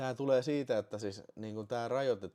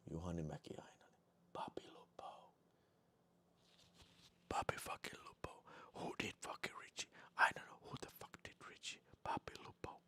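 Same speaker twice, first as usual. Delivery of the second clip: whispered list of names; whispering names; 7 semitones lower, 14 dB quieter than usual. Real, not acted. Streamer whispering the members' names in a hush.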